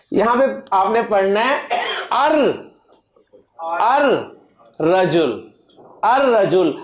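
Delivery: ار رجل with the lam dropped and the r doubled; teacher showing ar-rajul; silent lam. Shown as a demonstration. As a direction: say ar-rajul, no l sound. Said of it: "لام نہیں پڑھنا".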